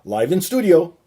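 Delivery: slow, loud host build-up to the name; guest announcement. Acted. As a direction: announce the guest like a ring intro.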